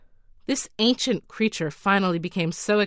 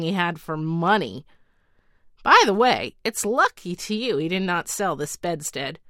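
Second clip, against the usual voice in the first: lightly voiced, brisk magic servant; storybook genie voice. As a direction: play the slave of the bedstead lightly. Bedstead slave voiced in story.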